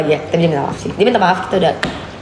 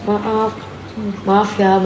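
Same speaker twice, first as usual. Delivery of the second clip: apologetic; 2 semitones lower, 4 dB quieter, slower than usual. Retold or imitated. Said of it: "suara aku kencang".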